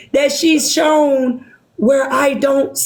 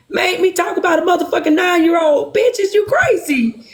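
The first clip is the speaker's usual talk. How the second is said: self-scolding outburst; 5 semitones higher than usual. Real, not acted. Berating herself.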